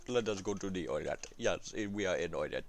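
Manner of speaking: a hint of a mock Indian accent. Streamer announcing the next nation in a light Indian accent. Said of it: "This is Indian accent for me".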